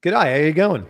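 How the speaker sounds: put-on a light try at an Australian accent; Aussie accent attempt. Asked for an Aussie accent, a light attempt at an Australian accent. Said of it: "I wanna hear another Aussie accent try".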